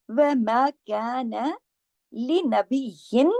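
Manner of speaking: लिनबिय्यिन recited slowly with a full clear nun and doubled ya; slow tajweed recitation of लिनबिय्यिन, every letter clear; लिनबिय्यिन chanted slowly, shadda on ya joined; tajweed demo. Shown as a demonstration. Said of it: "इसको पूरा लिनबिय्यिन".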